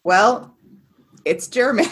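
put-on German accent. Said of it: "I can do my German accent".

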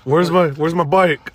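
slow, lightly voiced dazed biker; Norman Reedus confused. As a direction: join in as the baffled biker. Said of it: "Norman Reedus".

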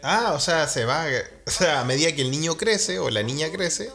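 ordinary talk

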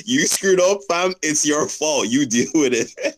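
high-pitched, blaming parent impression; mock a no-sympathy parent, pitched well up; Nigerian parent. Imitating a parent refusing to help, high and scolding. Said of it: "just that Nigerian parent raise up mentality".

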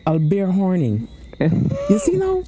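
wag a finger with a chanting moral; mock solemn warning.

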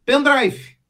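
mock-triumphant reveal; brilliant-idea announcement. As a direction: announce it like a eureka moment. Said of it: "Aí ele tem a brilhante ideia".

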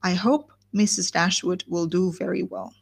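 reading a novel's gossiping speech aloud; audiobook-style reading of a long speech; story reading. Acted. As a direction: read it like a chatty old gossip, unhurried. Reads Mrs Jennings' speech aloud.

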